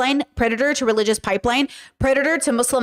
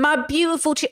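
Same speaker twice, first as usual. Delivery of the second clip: higher-pitched mimicry of the speaker in a clip; mock-sincere echo; mocking imitation; 5 semitones higher than usual. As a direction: parrot his words mockingly. Mimics the clip just played.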